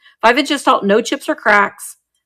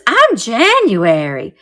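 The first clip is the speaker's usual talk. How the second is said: figurine voice; 3 dB louder, slower than usual. Pretend. Voicing the January angel.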